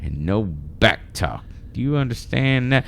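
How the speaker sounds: very slow, stretched Texas drawl; Southern Texas accent. Acted. Reading the boss's lecture to a worker, in a Southern accent. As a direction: lay down the law in a super-Southern twang. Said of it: "super, like, Southern slash Texas".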